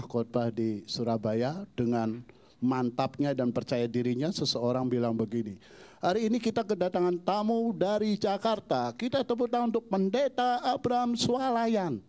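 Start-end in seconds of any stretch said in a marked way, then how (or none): 6.0-12.0 slightly high MC announcement; lightly mocked emcee. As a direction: hype the guest preacher. MC introduces the guest. (pembawa acara memperkenalkan tamu dengan semangat)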